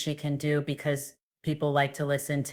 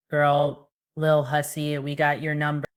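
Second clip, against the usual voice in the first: loud teasing call-out on the first word; mock scolding, loud on Girl; sassy call-out; 4 dB louder than usual. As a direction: call her out like you caught her. Calling her out, teasing.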